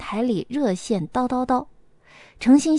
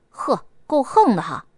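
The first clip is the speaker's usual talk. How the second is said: yelling. Acted. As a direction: shout at him to let go. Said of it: "女孩大吼着".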